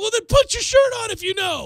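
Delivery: high, loud, exasperated scolding parent voice.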